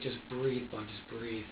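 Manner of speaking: low-volume, calming murmur; soft and steadying; soothing self-talk. Retold or imitated. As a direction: quietly talk yourself down. Retells calming self with breathing.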